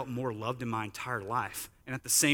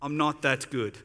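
put-on Australian accent. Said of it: "in my best Australian voice".

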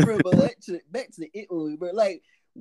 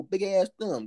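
usual speaking voice

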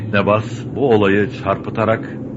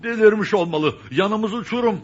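much higher, panicked; frightened; 12 semitones higher than usual. Acted. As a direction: cry out at the cliff edge. Reckless driving, frightened.

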